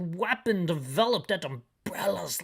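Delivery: chief voice. Acted. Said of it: "That's a terrible voice for the chief".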